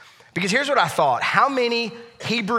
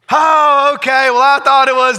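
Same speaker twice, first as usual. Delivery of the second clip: surprised; 7 semitones higher, 10 dB louder than usual. Retold or imitated. Neighbor on phone, relieved.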